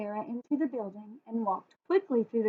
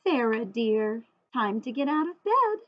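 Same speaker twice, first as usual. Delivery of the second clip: father's call; 4 dB louder than usual. Acted. Father waking daughter gently.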